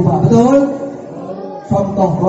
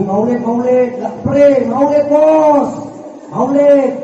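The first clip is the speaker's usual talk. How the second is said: higher, chanting the word maulid with glee; festive cheering; 4 semitones higher, slower than usual. Acted. Crowd cheers about the maulid celebration, higher excited chant. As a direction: hype it like a crowd at the feast.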